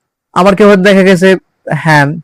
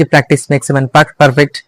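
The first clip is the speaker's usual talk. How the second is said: slow, deliberate reading of the familiar proverb; quoted common saying; much slower than usual. Shown as a demonstration. Speaker reciting the proverb he rejects, slow and deliberate. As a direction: spell out the old saying word by word. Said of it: "I'll never say this sentence".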